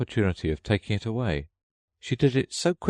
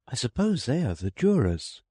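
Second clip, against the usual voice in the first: higher voice, proud of the word; Alice pleased with herself; 6 semitones higher than usual. A narrator's reading. Alice proudly naming the jurors, higher girl voice. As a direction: savour the new word jurors.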